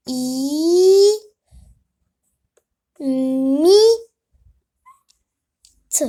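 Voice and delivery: slow, split into I, mi, te; syllable by syllable. Shown as a demonstration. Teacher sounding out the word for the class, syllable by syllable. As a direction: spell it out I, mi, te. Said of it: "Regardez comment on écrit le mot imite".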